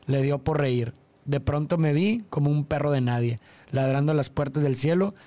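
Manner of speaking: recited lyric, evenly; reading lyrics. Shown as a demonstration. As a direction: read the lines like a poem.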